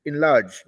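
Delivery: इनलार्ज opening on a vowel between इन and एन. Shown as a demonstration. Teacher showing students the sound, इनलार्ज begun between इन and एन. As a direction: say इनलार्ज starting midway between इन and एन. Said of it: "आई और एन जो के बीच का है".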